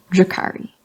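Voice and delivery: "Drukari" with a short uh after the Dr; "Drukari" as DRUH-kari; short first vowel. Shown as a demonstration. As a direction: begin "Drukari" like the word drum. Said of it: "as in drum".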